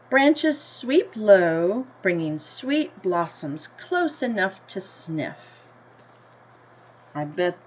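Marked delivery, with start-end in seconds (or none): 0.1-5.4 gentle storybook read-aloud, slightly slower; story reading. A narrator's reading. Teacher reading the class a picture book, in an unhurried storybook voice.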